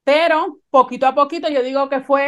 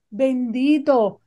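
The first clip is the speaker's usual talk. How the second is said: tender doctor; slower than usual. Retold or imitated. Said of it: "con esta ternura".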